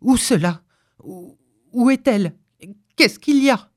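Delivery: startled questions climbing in pitch; alarmed. A narrator's reading. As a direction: stammer awake in rising alarm. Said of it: "Il tressaillit et s'alarma aussitôt". (alarmé, en sursaut)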